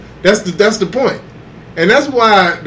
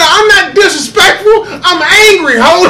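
mock angry yell; 8 semitones higher, 3 dB louder than usual. Acted quarrel continues.

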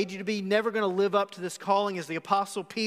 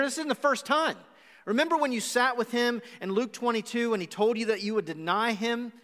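imagined Paul; 4 semitones higher than usual. Retold or imitated. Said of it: "I wonder if he brought it up and he said".

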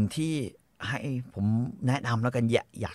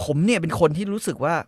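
ordinary talk, nothing marked

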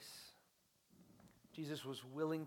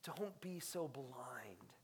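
whisper; 3 semitones lower, 6 dB quieter, much slower than usual. Real, not acted. Preacher drops to a plea.

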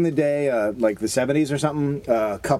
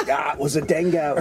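put-on Australian accent. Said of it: "well done".

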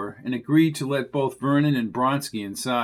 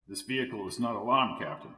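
softer, quick hushed report; 3 semitones lower, 9 dB quieter, faster than usual. A narrator's reading. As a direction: report quietly so nobody hears. Quiet report in garage.

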